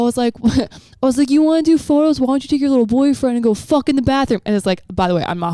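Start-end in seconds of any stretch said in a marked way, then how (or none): 1.3-4.4 high-pitched, heated mock challenge; worked-up jeering questions; retold taunt. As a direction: re-enact telling him off. Re-enacts taunting man at gym.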